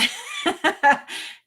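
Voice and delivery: high, loud giggle; laughing. Real, not acted. Host wrapping up the live chat, high laughter.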